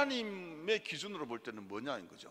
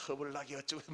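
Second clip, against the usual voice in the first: lightly mimicked Jeolla talk; Jeolla dialect. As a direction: toss off some Jeolla dialect. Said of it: "요즘엔 전라도 말로 많이 해주시는 것". (전라도 사투리 살짝 흉내)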